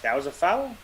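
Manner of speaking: mock-baffled viewer, pitch jumping up; incredulous question. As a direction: question the call in disbelief. Acts out disbelieving viewer of a call.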